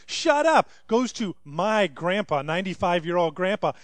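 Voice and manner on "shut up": put-on high, loud toddler yelling shut up; toddler shouting. Nephew in the corner yelling at family, high toddler shout. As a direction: bark it like a bossy two-year-old. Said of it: "Goes to his parents".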